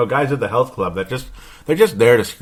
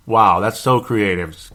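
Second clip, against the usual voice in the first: sarcastic; slower than usual. Real, not acted. Mocking a plain nickname.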